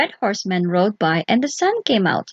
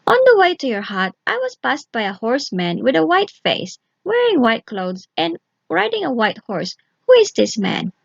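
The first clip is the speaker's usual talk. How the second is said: put-on higher, eager girl's voice; curious young girl; 4 semitones higher than usual. Vasilisa questioning the witch, eager and higher. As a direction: ask eagerly, a bit quicker. Vasilisa asks about horsemen.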